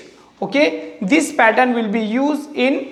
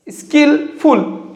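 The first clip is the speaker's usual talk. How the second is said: slow syllables; 2 semitones higher than usual. Shown as a demonstration. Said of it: "three syllable".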